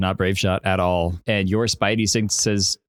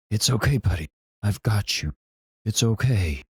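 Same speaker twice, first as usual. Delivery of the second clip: calm voice. Acted. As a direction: gently soothe him, nothing is wrong. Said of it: "In a very calm voice".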